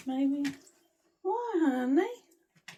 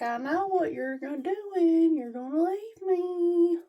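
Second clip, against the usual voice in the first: voicing the dog; 4 semitones higher than usual. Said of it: "He's like".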